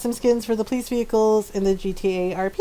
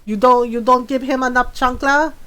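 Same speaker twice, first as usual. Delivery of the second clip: imitated Filipino mom. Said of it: "she goes".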